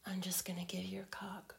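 intimate teasing whisper. Acted.

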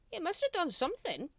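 high, swooping guard voice; insistent guard. A narrator's reading. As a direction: press the point with pitch jumping high. Guard pressing the recruit.

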